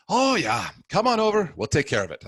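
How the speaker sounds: put-on high, loud Italian accent that slips into Irish; wobbly mock-Italian welcome, starting high and settling down; attempted Italian accent. Old priest on the phone inviting him over, botched Italian accent. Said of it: "my Italian accent sounded Irish there".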